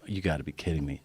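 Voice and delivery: low, quiet exasperated aside; muttered disbelief. Retold or imitated. Comic seeing the heckler still in her seat, muttered disbelief.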